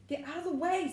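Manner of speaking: loud, sharp snap; snapping. A narrator's reading. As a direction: snap at him in annoyance. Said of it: "snapped Ron".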